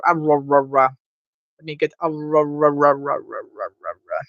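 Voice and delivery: Aurora stuttered into repeated "ra-, ra-"; joke pronunciation. Shown as a demonstration. Streamer fooling with a character's name, joke pronunciation. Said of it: "say his name properly without jokes".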